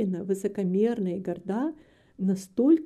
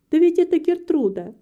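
higher, louder cry of recognition; excited exclamation; 8 semitones higher, 6 dB louder than usual. A narrator's reading. Kitty spots Gertrude coming to the house, excited exclamation. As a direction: call it out in lively surprise.

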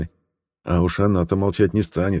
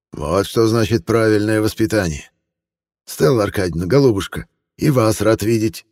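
lightly voiced cheerful old man; friendly old man; 4 semitones higher, 4 dB louder than usual. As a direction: gush like a sugary old gentleman. Jovial old antiquarian talks.

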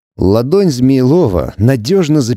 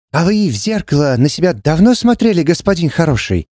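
raised, lilting Romani patter; sly Romani fortune-teller lilt; Romani singsong; 5 semitones higher than usual. Acted. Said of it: "с традиционным ромалийским говорком".

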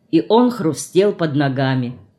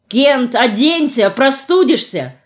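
higher-pitched, restrained cry; calling after someone; 6 semitones higher than usual. A narrator's reading. Mother calls after her son leaving coatless, mild shout. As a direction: call out in worry, without full volume. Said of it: "закричала вслед ему мать".

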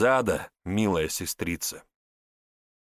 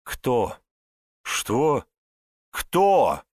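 each question pushed higher and louder, ending in a shout; demanding Кто, rising to a shout; building pressure; 5 semitones higher, 4 dB louder, much slower than usual. A narrator's reading. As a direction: press him harder with every word. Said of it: "С куда большим нажимом повторила вопрос она".

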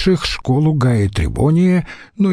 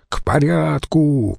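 calling out; 4 semitones higher, slower than usual. Acted. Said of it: "выкрикнул Марцел-старший".

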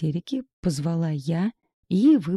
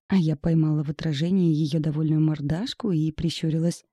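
ordinary delivery

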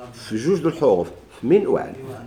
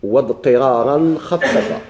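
reciting the verse; much slower than usual. Shown as a demonstration. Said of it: "قال".

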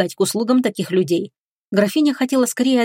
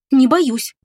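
higher, louder brave reply; bravely; 5 semitones higher, 4 dB louder than usual. Acted. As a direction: put on a brave front. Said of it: "храбро ответила Оливия".

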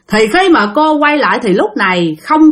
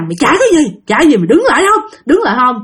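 urgent demand to halt; a chasing demon's sharp, rapid-fire questions; menacing challenge; 3 semitones higher, much faster than usual. Acted. Demon chasing the fleeing woman, menacing. Demon chases and orders her stop.

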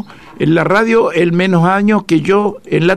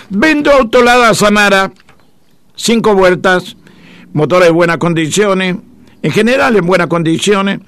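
radio ad read; 2 semitones higher than usual. Acted. Reads a classified car ad.

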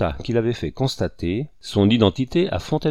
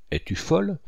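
high, startled retort; a sudden high burst of disbelief; shocked; 9 semitones higher than usual. Acted. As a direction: snap back in disbelief at the wife. Husband shocked at wife.

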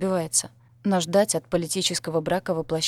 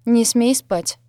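loud tearful demand, higher; 5 semitones higher, 8 dB louder, much slower than usual. A narrator's reading. Tear-stained mistress demanding her maid stay awake. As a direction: insist loudly she stay awake. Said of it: "потребовала моя зарёванная хозяйка".

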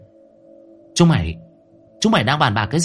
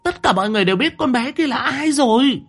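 yelling; 9 semitones higher than usual. A narrator's reading. Mother yelling at daughter about the video. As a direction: yell at her in exasperation. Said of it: "Bà ta gào lên".

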